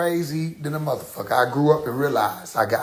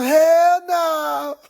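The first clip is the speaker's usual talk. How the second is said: mock mom outburst; 12 semitones higher, 5 dB louder than usual. Mom reacting to the joke.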